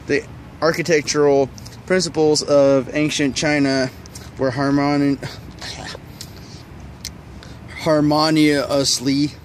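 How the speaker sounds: talking around gum; words muffled by chewing gum. Real, not acted. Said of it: "I can't speak 'cause I have gum in my mouth".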